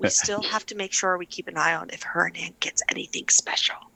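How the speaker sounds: hushed whisper. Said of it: "I'm whispering this to him".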